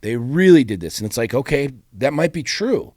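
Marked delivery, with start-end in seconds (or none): 0.0-1.0 mock complaining.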